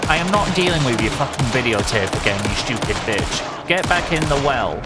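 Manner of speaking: mock-furious gamer yelling at a horror villain; angry yelling at a ghost. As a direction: shout her back into the well.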